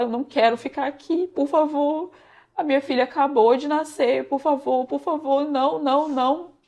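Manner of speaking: imitating a distraught plea; retold tearful pleading. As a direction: plead as if crying, without real sobs. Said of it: "a chorar, e a falar".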